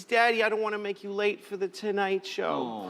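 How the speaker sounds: imitated tearful child. Crying daughter apologizing to dad, mildly imitated tearfulness. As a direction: plead it as a child acting close to tears. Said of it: "and she's crying".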